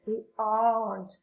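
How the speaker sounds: "aren't" as "ahnt", R barely heard. Shown as a demonstration. Teacher asks the class to repeat aren't, R nearly silent. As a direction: let the R in "aren't" almost vanish. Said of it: "Quasi non si sente la R when you pronounce it".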